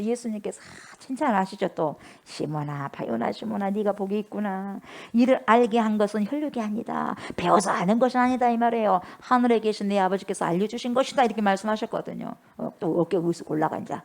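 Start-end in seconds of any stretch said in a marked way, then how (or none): 2.2-11.2 tender praise. Acted. Jesus praising Peter.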